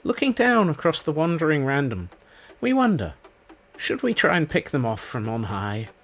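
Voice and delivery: lightly hushed nature documentary narrator; a hint of wildlife narration awe; Attenborough. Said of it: "that felt like an Attenborough moment".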